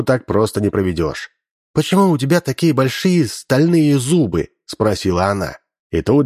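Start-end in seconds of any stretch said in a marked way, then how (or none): 1.7-4.5 bright questioning schoolgirl voice; naive girl voice. Acted. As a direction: ask innocently, pitched up. Girl questions disguised saboteur.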